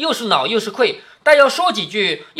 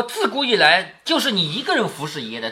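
mocking sarcasm. Shown as a demonstration. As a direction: say 自古以来就是你一个人服侍爷的 with a mocking, sarcastic edge. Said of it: "是讥笑的，讽刺的".

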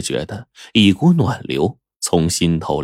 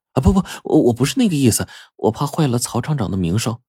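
higher, stammering in a hurry; flustered denial; 4 semitones higher, faster than usual. Acted. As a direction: scramble to take it back. Flustered woman denying offence. (慌忙否认，声音偏高)

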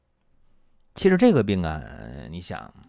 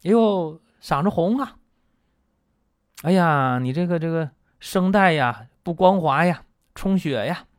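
much higher, louder, alarmed doctor; exclaiming doctor voice, pitched way up; mock fussing doctor; 10 semitones higher, 6 dB louder than usual. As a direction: ham up a doctor fussing over the throat. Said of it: "一复查".

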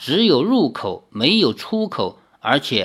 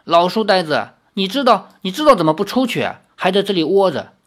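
irritated; 3 semitones higher, faster than usual. Acted. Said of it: "天鬼皇没好气地说".

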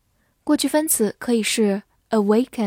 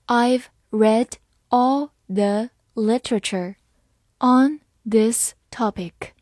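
slowly; slower than usual. Shown as a demonstration. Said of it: "好，慢慢来读。".

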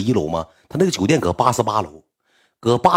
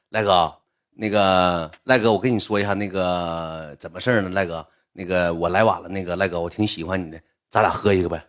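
put-on fawning drunk friend; 5 semitones lower than usual. Anzi sucking up to Laizi.

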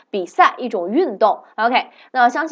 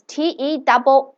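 spelling it out; 3 semitones higher than usual. Shown as a demonstration. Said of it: "今天的单词tennis".

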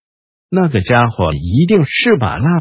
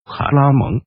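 put-on hoarse young mage. Raistlin calls his brother.

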